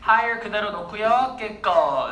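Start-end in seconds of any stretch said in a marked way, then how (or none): 1.4-2.1 "깨꺼" as the ending of hierarchical; shown pronunciation. Shown as a demonstration. Teacher shows how the adjective ending reads, demonstrated pronunciation. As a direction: say "깨꺼" with tense k sounds, lower in pitch. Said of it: "깨꺼 이렇게 읽었어".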